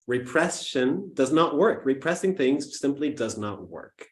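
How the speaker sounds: "Repression does not work" said deliberately, with weight on each word; firm emphasis on "Repression" and "simply does not work"; emphatic key point. Real, not acted. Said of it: "I want to emphasize here".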